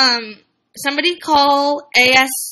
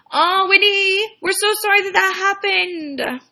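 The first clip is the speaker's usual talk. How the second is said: higher, drawn-out sympathy; sympathetic cooing; 5 semitones higher, slower than usual. Real, not acted. Host consoles a viewer over what happened, sympathetic cooing. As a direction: console in a raised, lingering coo.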